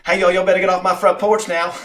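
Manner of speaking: high, loud laughing Texan "get off my porch"; a hammed-up Texan yelling off his porch, laughing; Texan drawl. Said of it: "moved to Texas".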